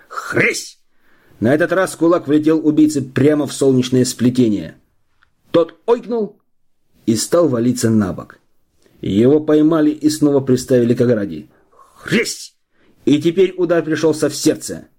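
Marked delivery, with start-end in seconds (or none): 0.1-0.8 whispered blow sound. A narrator's reading. Onomatopoeia of a blow. 12.0-12.5 whispered blow sound. A narrator's reading. Onomatopoeia of a blow.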